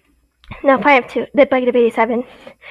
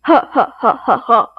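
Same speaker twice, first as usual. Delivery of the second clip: gleeful evil laugh inside the suit; villain laugh; 3 semitones lower than usual. Acted. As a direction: laugh like a cartoon villain who thinks he's safe. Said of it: "He starts laughing".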